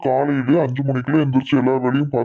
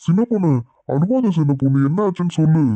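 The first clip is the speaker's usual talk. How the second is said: raised, cooing comfort; babying plea to stop crying; doting coaxing; 4 semitones higher than usual. Acted. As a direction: coddle a crying wife, pitched up. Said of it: "இப்பதான் கொஞ்சிட்டு நிக்கிறான் பாரு".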